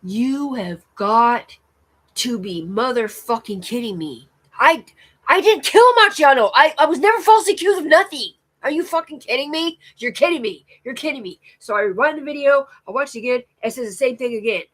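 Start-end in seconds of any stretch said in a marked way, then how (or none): 0.0-11.4 high, loud, furious disbelief; retold outrage, loud and high; outraged disbelief. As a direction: yell it at the screen in shock. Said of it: "I'm like".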